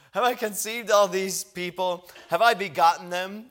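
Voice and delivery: exasperated protest. Retold or imitated. Moses protesting to God that these aren't his kids. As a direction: push back at God, fed up.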